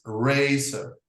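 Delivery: razor said slowly with a soft S sound. Shown as a demonstration. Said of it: "will be written as".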